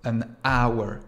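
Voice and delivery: "An hour" said with a silent h, an-our; "hour" begins on a vowel sound, no h; pronounced an hour. Shown as a demonstration. Teacher demonstrates the silent h for the class. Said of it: "On entend A".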